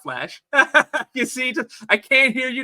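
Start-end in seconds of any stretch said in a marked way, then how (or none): 1.9-2.6 shouting over music. Retold or imitated. Re-quoting Peter over the music.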